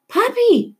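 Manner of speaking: put-on girl searching the riot for her father; calling out. A narrator's reading. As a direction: cry out for her father over the crowd. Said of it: "she called".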